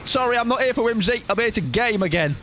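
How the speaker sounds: hammed-up no-nonsense gamer; mock haughty. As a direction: play the stern serious gamer.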